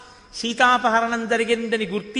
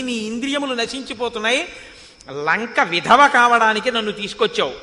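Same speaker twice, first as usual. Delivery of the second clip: louder, scolding Sita warning Ravana; defiant Sita; 4 dB louder than usual. Acted. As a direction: rebuke him like a fool. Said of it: "సీతమ్మంది".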